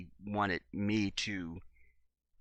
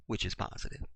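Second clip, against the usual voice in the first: whispered aside; 3 dB quieter than usual. Shown as a demonstration.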